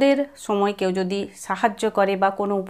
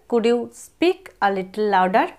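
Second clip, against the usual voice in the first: slower repeat; much slower than usual. Shown as a demonstration. Teacher repeating the phrase slower for students. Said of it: "ইংরেজিতে এইভাবে বলা যায়".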